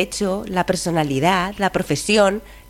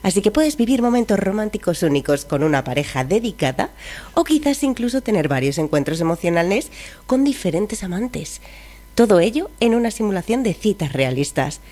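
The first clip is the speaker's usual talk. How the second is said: chipper text to speech voice. Shown as a demonstration. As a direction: read it like a cheerful robot assistant. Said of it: "voz de inteligencia artificial".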